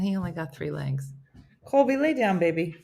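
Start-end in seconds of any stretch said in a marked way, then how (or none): 1.6-2.8 raised, higher-pitched call to a dog; yelling to dog. Real, not acted. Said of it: "He can't, I'm yelling".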